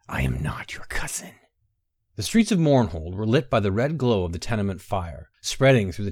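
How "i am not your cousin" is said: low menacing hiss, much lower. A narrator's reading. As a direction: hiss the words like a threat. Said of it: "he hissed".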